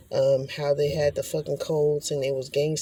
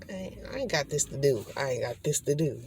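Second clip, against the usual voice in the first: softer, mumbled first attempts at the line; half-say it under your breath, searching; quiet try; 6 dB quieter than usual. Shown as a demonstration. Trying to recall the spirit's words, softly mumbled. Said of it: "There it go".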